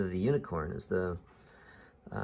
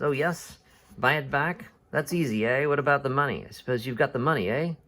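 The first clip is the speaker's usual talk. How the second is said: higher, exasperated mock agreement; acted irritation, pitched up; scoffing sarcasm; 4 semitones higher, faster than usual. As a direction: pepper a clueless friend with sarcastic questions. Haddock scoffs at oblivious Calculus.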